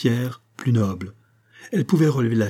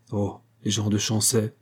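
slightly lowered, dismissive shrug; disdainful indifference. Acted. Marin dismissing village gossip, disdainful indifference. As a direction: brush it off with mild scorn. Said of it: "un geste d'indifférence dédaigneuse".

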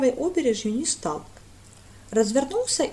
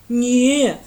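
serious no; 2 semitones higher, 10 dB louder than usual. A narrator's reading. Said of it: "серьёзно помотал головой".

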